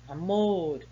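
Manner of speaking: "Amor" with the last syllable drawn out, a-MOR; "Amor" stressed firmly on its final syllable. Shown as a demonstration. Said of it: "é a sílaba mais forte".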